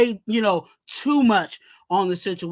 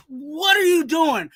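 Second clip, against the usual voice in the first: exasperated shout; 5 semitones higher than usual. Real, not acted. Fan calling out Divine Deablo, exasperated shout. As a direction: throw up your hands and shout it. Ranting at a linebacker.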